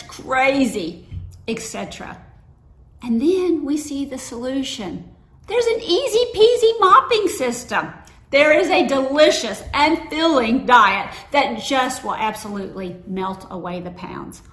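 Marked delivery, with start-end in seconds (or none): 5.5-14.4 much higher and louder, hammed-up advert pitch; mock TV ad voice. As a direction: sell it like a cheesy commercial. Mocking a TV ad.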